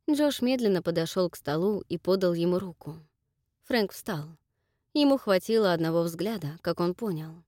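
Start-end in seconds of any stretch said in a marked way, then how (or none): none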